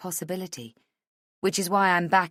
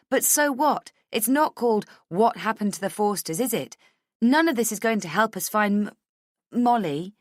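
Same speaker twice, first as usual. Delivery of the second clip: higher-pitched, heated argument; agitated, pressing delivery; insistent Rachel; 5 semitones higher, 5 dB louder than usual. Acted. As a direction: push back urgently. Voices Rachel arguing heatedly.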